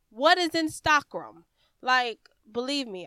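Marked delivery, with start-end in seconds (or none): 0.1-1.4 "Instagram" said as in-STOCK-rum, higher and louder; French-style pronunciation. Shown as a demonstration. Coach questioning the odd French word, French-style pronunciation. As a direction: puzzle loudly over "Instagram" said like in-stock-rum. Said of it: "French people probably pronounce Instagram".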